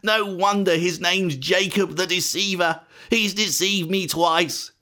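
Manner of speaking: high-pitched, aggrieved wail; acted hurt, cheated son; anguished lament. A narrator's reading. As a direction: protest bitterly to your father, slowing on key words. Esau laments being cheated.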